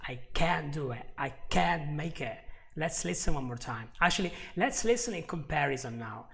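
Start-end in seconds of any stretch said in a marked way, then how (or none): 0.1-2.4 CAN'T very much pronounced; stress on CAN'T. Shown as a demonstration. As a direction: give CAN'T full weight and vowel. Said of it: "can is very much pronounced".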